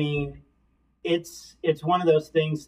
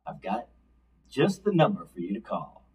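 announcer voice. Shown as a demonstration. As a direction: read it like a radio commercial. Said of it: "I also made sure I had my announcer voice".

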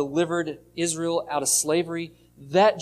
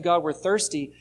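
a mild complaining whine, only lightly acted; grumbling complaint. Shown as a demonstration. Israel grumbling at God, a mildly voiced complaint. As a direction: grumble it like a thirsty crowd that doubts. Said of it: "they're not asking God politely".

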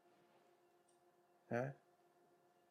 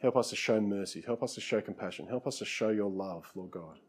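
earnest closing prayer, softening toward the end; pastor's closing church prayer; heartfelt prayer. Real, not acted. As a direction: pray sincerely over the congregation.

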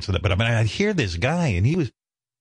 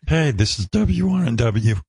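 bad teen DJ; 2 semitones higher than usual. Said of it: "I was a mess".

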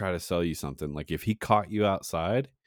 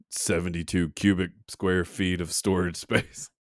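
mock ad read. Podcaster hawking a truck for sacrifices, mock announcer. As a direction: pitch it in short punchy ad phrases.

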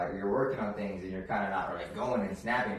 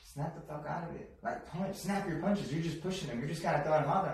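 Henry; 6 semitones higher than usual. Retold or imitated. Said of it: "when you hear his tone of voice as a trainer".

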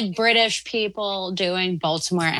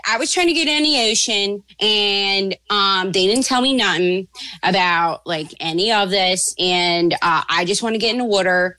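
put-on Baltimore accent; 2 semitones lower than usual. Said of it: "Baltimore accent is my favorite, accent to do".

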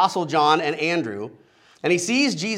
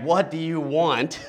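slow, put-upon exasperated ask; exasperated What do you want, drawn out. Shown as a demonstration. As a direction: sigh it out as if pestered. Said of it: "an exasperated".

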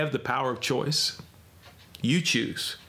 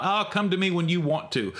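casual invite; 4 semitones higher than usual. Shown as a demonstration. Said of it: "It's not like a passive thing".

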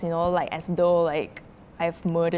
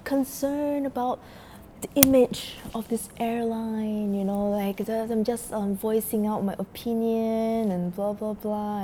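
mock nice; 3 semitones higher, slower than usual. Customer explaining to purser, suddenly nice. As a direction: imitate someone sweetly explaining, drawing words out. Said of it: "so nice and explaining".

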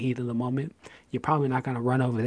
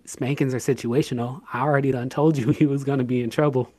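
joking stern parent; 6 dB louder than usual. Retold or imitated. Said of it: "I say".

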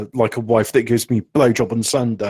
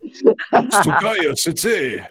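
put-on anime girl voice; 3 semitones higher, much slower than usual. Continuing the anime girl bit.

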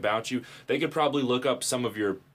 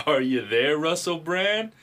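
louder, higher hammed-up Russell Brand accent; mock Russell Brand accent; 6 semitones higher, 4 dB louder than usual. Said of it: "I shoulda let you do the Russell Brand accent".

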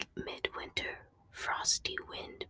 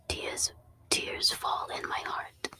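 whispered line before switching voice. Shown as a demonstration. Reading the poem's first line to listeners, whispered. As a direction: keep it a breathy whisper. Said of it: "I'll just read this in my normal voice".

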